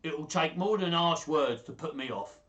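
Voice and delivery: put-on Paduan, speaking up; mock Paduan accent. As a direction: have a go at a Paduan wheeler dealer. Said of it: "in the best Paduan, uh, accent".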